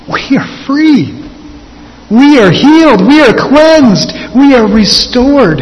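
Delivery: high, loud, slow ringing proclamation; proclaiming. Real, not acted. Preacher to congregation, a high, loud triumphant proclamation. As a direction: declare each phrase like a triumphant shout.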